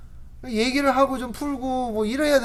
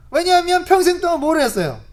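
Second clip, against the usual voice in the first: ordinary talk, nothing marked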